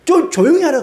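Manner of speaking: high-pitched, put-out mock protest; complaining Pharisees. Pharisees complain to Jesus about the cheering crowd, high mock protest. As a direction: voice indignant bystanders, pitched well up. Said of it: "옆에 있던 바리새인들이".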